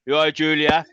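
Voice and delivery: lightly mimicked booming big man; a hint of a big menacing guy; imitated big booming voice. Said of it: "he'd still have that big booming".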